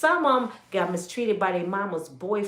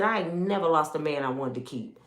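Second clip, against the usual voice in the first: quoted mother; 6 semitones lower, 6 dB quieter than usual. Retold or imitated. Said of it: "She said".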